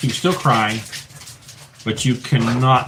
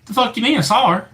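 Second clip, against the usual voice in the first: higher, disbelieving protest; incredulous husband; 9 semitones higher, faster than usual. Retold or imitated. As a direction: protest like you cannot believe it. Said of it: "He goes".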